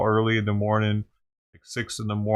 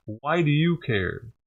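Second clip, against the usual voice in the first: patient question; 5 semitones higher, slower than usual. Shown as a demonstration. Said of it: "You could say".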